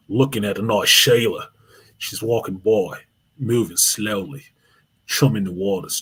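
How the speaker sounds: lightly done Australian nature-documentary narration; hint of an Australian wildlife host, slowed down; Steve Irwin voice. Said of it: "the Steve Irwin voice".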